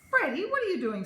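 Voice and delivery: high, loud startled mom; surprised. Acted. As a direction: catch him in the act.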